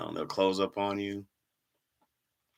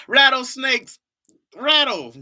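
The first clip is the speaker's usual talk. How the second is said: excited; 13 semitones higher, 6 dB louder, slower than usual. Real, not acted. Playful outburst about rattlesnakes.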